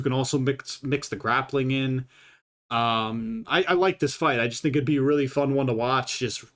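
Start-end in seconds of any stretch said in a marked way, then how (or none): 6.2-6.4 stumbling, stuttering restarts. Real, not acted. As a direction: trip over the words, stuttering. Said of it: "I'm fucking stuttering".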